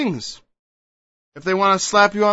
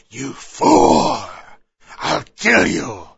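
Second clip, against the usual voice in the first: sharp angry cry of you fool; angry insult; much slower than usual. Acted. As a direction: scold someone in anger. Acted angry insult in sermon.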